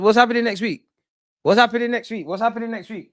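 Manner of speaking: high, loud, insistent; excited demand. Real, not acted. Fan demanding chat reveal next week, high and insistent. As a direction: press them for an answer, buzzing.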